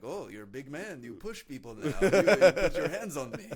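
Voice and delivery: loud mocking Arab accent, high and laughing; dad's Arab accent. Dad mocking his son in a thick Arab accent, loud. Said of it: "he was like".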